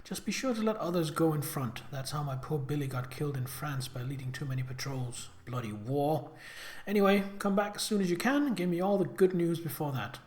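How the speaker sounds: reading Lucy's chatty letter in a light Brummie lilt; lightly voiced letter from a sister. Sister Lucy writing to Pippa in London, lightly voiced. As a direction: voice the sister gossiping from home, loosely.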